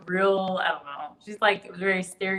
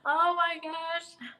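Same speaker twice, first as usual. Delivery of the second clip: amused disbelief; 10 semitones higher, much slower than usual. Real, not acted. Reacting to viewer's teasing comment.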